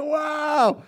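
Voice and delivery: high, bright wow; a fan's joyful wow; excited wow. Shown as a demonstration. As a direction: let the wow burst out. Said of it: "you go like".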